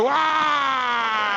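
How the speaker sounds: put-on high, bright exclamation to a child; mock cheery wow; distracting wow. Shown as a demonstration. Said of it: "if you just go".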